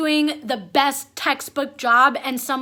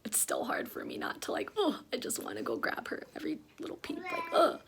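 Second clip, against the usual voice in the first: breath-only confiding whisper; whispered aside; 2 semitones higher, 13 dB quieter, faster than usual. Real, not acted. Whispered aside about fussing baby.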